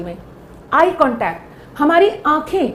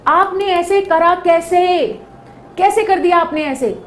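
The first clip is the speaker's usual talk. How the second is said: angry rebuke; 4 semitones higher than usual. Shown as a demonstration. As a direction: demand it with rising anger. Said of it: "कितना गुस्सा है second sentence में".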